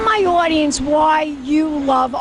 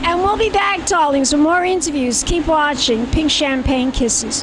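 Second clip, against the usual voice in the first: campy show host sign-off; gushing TV host sign-off; campy drag queen. Acted.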